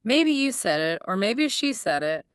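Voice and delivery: mildly defensive, leaning on who said it. Acted. Student voicing the hidden message, defensive. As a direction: defend yourself, stressing "I", "you", "she", "me". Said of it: "It sounds like I'm defending myself".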